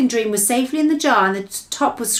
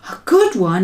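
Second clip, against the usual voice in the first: indignant cry; 6 dB louder than usual. Acted. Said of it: "he cried".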